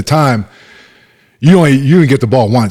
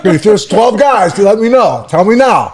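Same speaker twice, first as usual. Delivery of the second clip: laughing plea; 9 semitones higher than usual. Retold or imitated. Coach urging players to confess.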